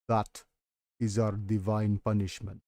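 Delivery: a lightly voiced old keeper pronouncing doom; grave record keeper.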